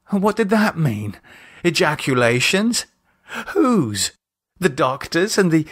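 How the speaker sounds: a captive imagining his kidnappers' plans, horrified; horrified dread. Acted. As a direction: let the horror seep in. Captive imagines what kidnappers plan.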